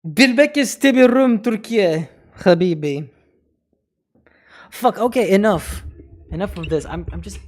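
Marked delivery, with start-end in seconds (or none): 0.0-3.1 mock rant.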